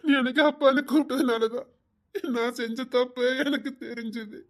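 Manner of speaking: tearful, choked admission; crying confession. Acted. Father crying to his daughter, confessing his wrong. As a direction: let the tears break through.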